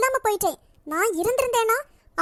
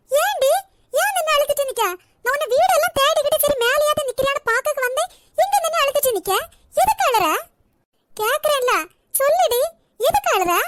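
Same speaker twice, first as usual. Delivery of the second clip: worried demanding; 4 semitones higher than usual. Acted. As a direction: press her to say why she cries. Finds sister crying, demands why. (பதற்றமான கேள்வி)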